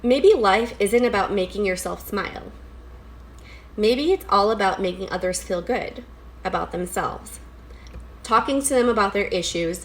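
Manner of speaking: measured, lightly lilting poetry recital; poem reading. Acted. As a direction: read it out as an earnest poem, phrase by phrase. Reads a poem aloud.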